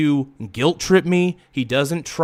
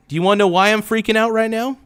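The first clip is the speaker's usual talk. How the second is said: higher and fast, words tumbling out upset; real agitated outburst, pitched up; freaking out; 5 semitones higher than usual. Real, not acted. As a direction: let the panic push the pitch up and rush. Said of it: "I am freaking out".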